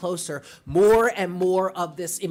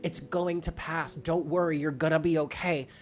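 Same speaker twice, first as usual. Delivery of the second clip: self-reassurance. Retold or imitated. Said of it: "turned around and was like".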